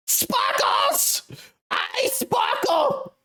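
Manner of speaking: high, slow breathy whisper; breathy sparkle whisper. Acted. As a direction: breathe it out like glitter.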